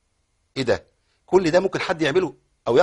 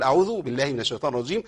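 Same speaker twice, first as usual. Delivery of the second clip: plain recitation; 3 dB quieter, faster than usual. Shown as a demonstration. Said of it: "هنشيل فاستعذ ونقول".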